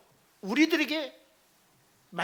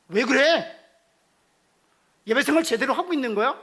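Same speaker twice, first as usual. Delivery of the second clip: put-on loud, high scolding of a child; rebuking parent; 4 semitones higher, 8 dB louder than usual. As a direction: scold the tired child harshly. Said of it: "이렇게 책망하는 것이 아니라". (지친 자녀를 다그치는 부모, 크고 높게 꾸짖듯)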